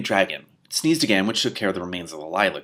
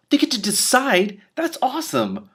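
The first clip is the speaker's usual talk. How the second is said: much higher, delighted aside; excited aside; 4 dB louder, slower than usual. Real, not acted. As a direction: break off reading in real delight.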